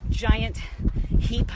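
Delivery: giant heap punched loud with pauses; emphatic stress. Real, not acted. Vlogger praising viewers' lives: loud stressed giant heap. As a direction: hit giant and heap hard. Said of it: "emphatic build".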